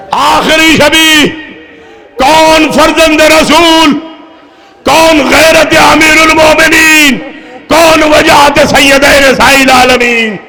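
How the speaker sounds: rising grief-laden oratory that settles back down; impassioned preaching. Acted. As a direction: call out each question to the weeping crowd. Impassioned lament of the last night.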